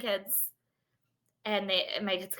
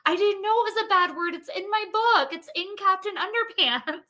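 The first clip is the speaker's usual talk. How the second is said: put-on higher, upset little kid voice; imitating a kid in tears; 12 semitones higher, 4 dB louder than usual. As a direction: play the kid protesting close to tears. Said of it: "like, in tears".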